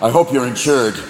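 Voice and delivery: lightly voiced menacing deer; vengeful buck. Buck facing a car to avenge his brother, lightly menacing. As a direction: confront the driver as a vengeful buck. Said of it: "five-point buck that jump out".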